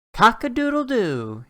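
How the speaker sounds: high, loud crowing cock-a-doodle-doo; rooster crow. A narrator's reading. Rooster waking the whole farm at dawn, crowing loud. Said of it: "he shouts".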